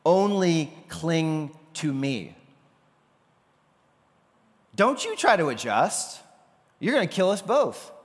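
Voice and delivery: high, loud urgent command, slow on cling; shout over the roar. Retold or imitated. Blondin shouting at his panicked manager over the waterfall. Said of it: "has to shout at him over the roar".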